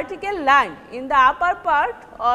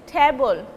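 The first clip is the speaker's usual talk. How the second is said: "Table" with a strong first syllable, dropping on the second; first-syllable stress; 3 semitones lower than usual. Shown as a demonstration. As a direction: hit the start of "Table", let it fall away. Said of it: "first syllable is stressed".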